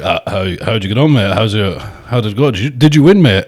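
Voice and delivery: matey put-on Yorkshire accent. Yorkshire fan asking if he won, in a Yorkshire accent. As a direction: do a curious Yorkshire mate. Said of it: "They all talk like Darren over in Yorkshire".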